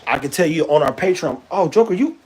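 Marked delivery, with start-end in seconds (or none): 1.5-2.2 high sing-song voice for the dog; pet talk voice. Real, not acted. Owner talking to his dog Joker, high baby talk.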